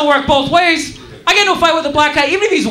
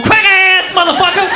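punchy mock-furious jab; acted angry insult; 3 semitones higher than usual. Angry rider aiming an insult at nearby passengers, mock fury. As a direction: imitate a ranting passenger. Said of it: "feel the heat from his fingers".

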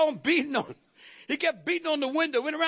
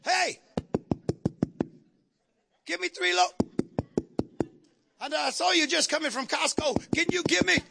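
dramatic friend begging; 2 semitones higher than usual. Acted. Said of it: "You know I have to be dramatic here".

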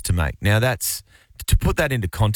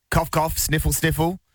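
higher mock-poorly delivery; higher-pitched hint at a sickie; fake sickness; 6 semitones higher than usual. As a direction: play up pretend symptoms, sounding the words out. Spells out fake sick-day symptoms.

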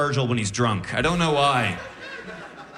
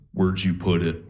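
low, flat sinister murmur; lightly voiced spooky sleep talker; creepy low voice; 9 semitones lower than usual. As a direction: drop into a creepy horror voice. Girlfriend sleep talking, creepy.

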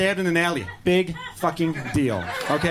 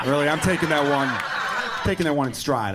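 laughing; 3 semitones lower than usual. Real, not acted. Laughing at own joke.

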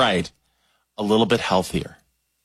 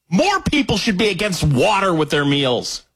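raised, rambunctious ranting pitch; 5 semitones higher than usual. Real, not acted. Host campaigning against water with meals, rambunctious. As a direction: declare it like a riled-up crusader. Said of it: "you seem a little, um, rambunctious".

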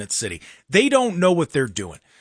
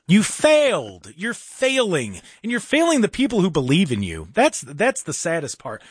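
scolding rant; 5 semitones higher than usual. Real, not acted. Scolding the mayor on air.

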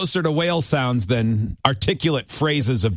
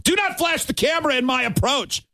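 higher indignant outburst, lightly acted; mock angry yell; 13 semitones higher than usual. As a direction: yell it like a bowler losing it. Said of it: "famous outburst where he yelled".

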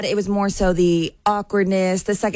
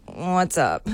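curt, lower what's up; mildly annoyed brush-off; 3 semitones lower than usual. Retold or imitated. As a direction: brush him off flatly. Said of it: "I sounded annoyed".

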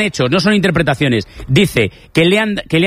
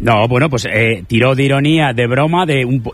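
low, slow, groping for words; halting, half-babbling; 6 semitones lower, slower than usual. Real, not acted. Commentator pressed to explain the coach's words, answering haltingly. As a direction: stumble slowly through the answer, restarting mid-word. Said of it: "Estás medio balbuceando y no te entiendo".

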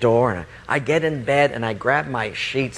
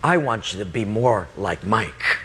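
God speaking; 5 semitones lower than usual. Acted. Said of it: "He said to me".

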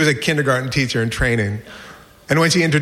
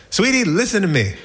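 higher-pitched coaxing mother; lightly voiced mom pleading to be heard; 6 semitones higher than usual. Mom to her crying boy, coaxing.

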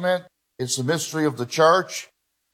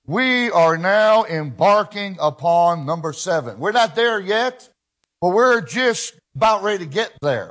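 higher-pitched, emphatic pulpit delivery; fervent preaching; 3 semitones higher than usual. Real, not acted. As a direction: proclaim it to the congregation with conviction. Preacher builds to the last trump.

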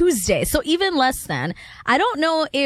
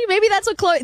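normal talking voice

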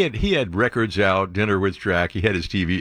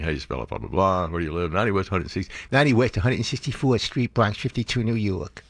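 put-on little kid voice; 3 dB quieter than usual. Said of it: "It's exactly how I sounded back then".

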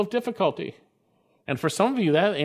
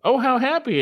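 emphatic exclamation; 8 semitones higher, 3 dB louder than usual. Shown as a demonstration. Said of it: "is actually emphatic".

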